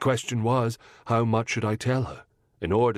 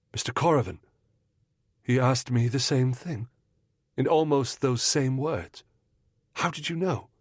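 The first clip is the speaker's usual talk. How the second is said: higher, wondering woman's voice rising at the end; amazed young lady, lightly voiced; 5 semitones higher than usual. Mrs Munro amazed that the detective guessed her pregnancy. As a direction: marvel at his guess.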